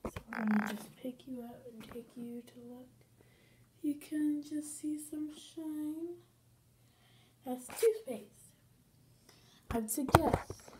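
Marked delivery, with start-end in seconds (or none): 0.0-8.6 talking through a stiff face mask; barely moving mouth. Real, not acted. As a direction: lips barely parted, mumbled. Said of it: "I'm not moving my mouth very wide".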